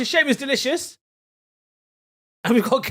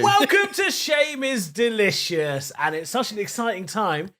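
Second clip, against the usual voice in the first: hammed-up host intro; slower than usual. Mock grand podcast opening.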